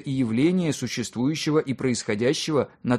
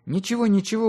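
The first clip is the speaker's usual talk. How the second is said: much higher, gently soothing woman's lines; reassuring; 9 semitones higher than usual. A narrator's reading. Woman calms her apologetic host, reassuring. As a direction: lightly brush the apology away in a raised pitch. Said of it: "успокоила его женщина".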